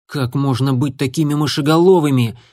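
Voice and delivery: ordinary delivery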